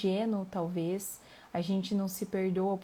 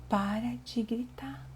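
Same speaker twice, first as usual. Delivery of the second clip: slow, hushed mock telling-off; whispery, drawn-out order to the kids; imitated parental scolding; 3 semitones higher, slower than usual. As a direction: act out an exasperated parent, half whispered. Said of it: "quando eles gritam ... eu falo".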